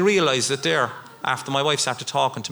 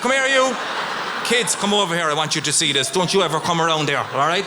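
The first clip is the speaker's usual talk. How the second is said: mock tough-guy challenge. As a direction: play the hard man. Imagined fight with the van man.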